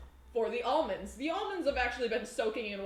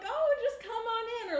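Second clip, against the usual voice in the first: mock welcome sign; 10 semitones higher than usual.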